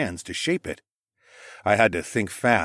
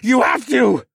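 through clenched teeth; 8 dB louder than usual. Acted. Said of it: "barely audible through his clenched teeth".

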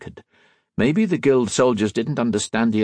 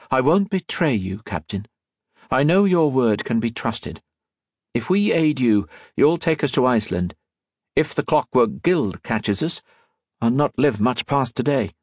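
lightly voiced figure, a little higher; earnest young ally; 4 semitones higher than usual. Colette promises the captain she can be trusted, earnest. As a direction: pledge it in a slightly raised character voice.

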